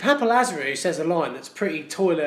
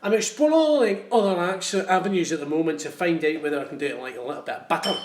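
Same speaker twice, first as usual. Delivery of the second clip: put-on Scottish accent. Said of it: "Do the Scottish accent".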